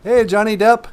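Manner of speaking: very high, very loud character voice; high-pitched sidekick yell; character greeting. Acted. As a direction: shout hello way up high. High character voice greets celebrity caller.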